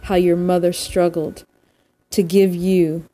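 measured recital with pauses between lines; poem reading. Real, not acted. Host reads a poem to listeners to unwind, measured poem reading. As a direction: read verse deliberately, leaning on each opening word.

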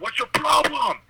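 high, loud mock yell; retold yell. Head out the window at the honking old man, high mock yell. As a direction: shout it out the car window, hammed up. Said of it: "I was, like, yelling".

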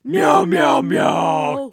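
very high meowing; cat meow. Acted. Cat sound effect bit.

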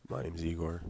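hoarse morning voice; raspy, just woken up. Real, not acted. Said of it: "sorry for the raspy voice this morning".

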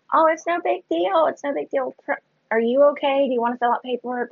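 lightly voiced front desk guy, high and airy; mock staff voice.

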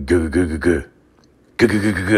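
imitated churning stomach; rapid repeated gurgling noises; stomach gurgle. Man mimics his stomach after bad chicken, gurgling. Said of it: "I can feel my stomach. It's like".

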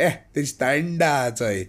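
तोंडा said as "taan-daa", vowel opened and stretched; village-boy taunt. Shown as a demonstration. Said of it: "We used to say it in a way".

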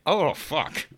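sudden high yelp of dismay; startled high curse; mock oh-crap moment. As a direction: blurt it out like you just messed up. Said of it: "I was like".

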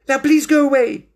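high, loud panicky plea; frightened plea. Acted. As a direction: beg them to leave.

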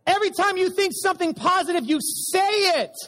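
shouted refrain, slowing down. Shown as a demonstration. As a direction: belt it out as the last, biggest round. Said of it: "Round two, y'all".

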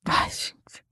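whispered in fright; scared whisper. Real, not acted. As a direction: breathe it out, frightened. Scared listener reacting to story. (sussurro assustado)

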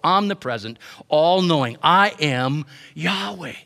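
rising, emphatic preaching, each line a declaration; preaching God's words. Acted. Preacher voicing God's answer to Moses, in emphatic preaching. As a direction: proclaim it as God speaking, building with conviction.

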